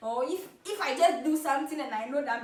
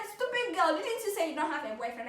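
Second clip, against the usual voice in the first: scolding senior; 5 semitones higher than usual. Retold or imitated.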